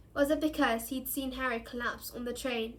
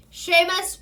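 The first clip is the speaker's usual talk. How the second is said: loud roared name, higher; 7 semitones higher, 11 dB louder than usual. A narrator's reading. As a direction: call the next boy up loud. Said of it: "roared Professor Lupin".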